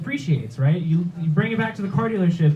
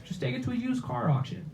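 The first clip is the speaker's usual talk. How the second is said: dumb dad; 7 semitones higher, 9 dB quieter than usual. Retold or imitated. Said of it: "He gives me a dumb dad solution".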